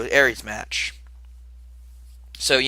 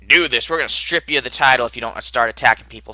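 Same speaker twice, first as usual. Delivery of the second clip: mock angry outburst; 4 dB louder than usual. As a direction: imitate someone mad, hit the opening hard. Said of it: "is all mad and upset".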